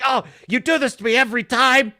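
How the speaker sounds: imitating a father's nasty voicemail; imitated angry rant. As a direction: rant down the phone like a furious dad. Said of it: "he just is ranting at his thirteen-year-old daughter".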